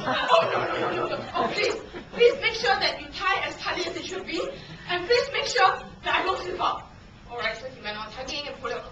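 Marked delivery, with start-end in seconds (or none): 0.1-6.9 high, hammed-up begging; panicked pleading. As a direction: plead anxiously for a tight rope, comically acted. Begging for a tighter rope.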